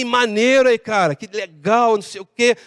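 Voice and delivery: laid-back Rio de Janeiro accent; lightly imitated Rio slang speech; Carioca accent. Shown as a demonstration. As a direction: stretch it like a Carioca. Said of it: "Aí você vê que é o carioca".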